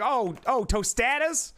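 tostadas with a full Spanish accent; overdone Spanish pronunciation of tostadas, rising; authentic Spanish tostadas. Shown as a demonstration. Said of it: "go really, really into it".

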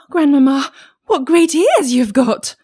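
put-on high, loud child's exclamation; amazed little girl. A narrator's reading. Child staring at disguised grandmother, amazed high voice. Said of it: "being greatly amazed".

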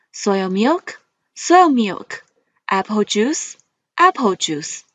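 each word twice, rising then falling; list reading tune. Shown as a demonstration. Teacher modelling vocabulary for students, rise then fall. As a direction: model words for the class to repeat. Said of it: "let's read the words".

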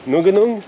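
"Nunganung" in three syllables, rising high like a question; alternative pronunciation attempt. Shown as a demonstration. Guessing the waterfall's name again, "Nunganung" as a three-syllable question. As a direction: try "Nunganung" with an extra middle syllable, questioningly. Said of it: "One of those versions is probably correct".

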